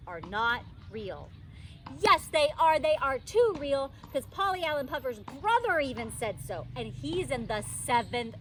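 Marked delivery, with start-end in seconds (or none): 2.0-6.7 insistent protest. Acted. Junie insists monsters are real.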